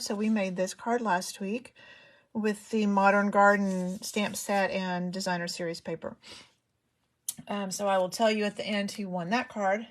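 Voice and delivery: breathless, winded speech; talking while short of breath. Real, not acted. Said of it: "Sorry, I'm out of breath".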